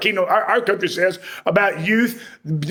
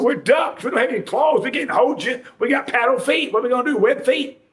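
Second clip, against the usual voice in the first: higher, protesting duck voices; exasperated ducks; 4 semitones higher than usual. Retold or imitated. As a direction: ducks scoffing at the frog's request. Ducks answer frog exasperated.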